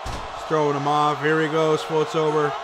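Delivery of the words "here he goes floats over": rising hype, then a winding-down result call; wrestling commentator. Real, not acted. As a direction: call the finish like a ringside announcer. Live play-by-play, finish and result.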